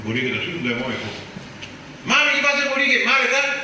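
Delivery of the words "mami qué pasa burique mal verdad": very high, louder worried voice; hammed-up worried asking; high mock voice. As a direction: fret like a scared patient. Voicing a patient asking doctor.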